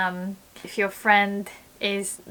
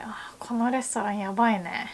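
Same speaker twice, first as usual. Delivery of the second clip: disgusted complaint; 4 dB quieter, faster than usual. Shown as a demonstration. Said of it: "if you change the tone".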